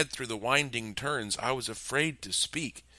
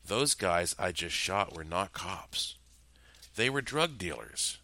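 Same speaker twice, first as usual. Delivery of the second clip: at ease; 3 dB quieter than usual. Acted. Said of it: "Peck sounded incredibly at ease".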